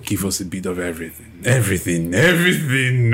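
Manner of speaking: villain voice. Acted. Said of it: "You sound so much like a villain".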